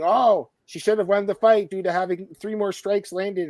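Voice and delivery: slow, lilting caricature of a Twitter scoring nerd; mock nerd accent. Mocking fans who count strikes, in a slow put-on accent. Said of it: "I love the, I love the accent".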